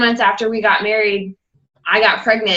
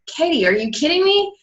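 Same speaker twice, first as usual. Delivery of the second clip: higher-pitched mock incredulity; exasperated disbelief; 6 semitones higher than usual. Husband reacts to wife ignoring crying baby, exasperated.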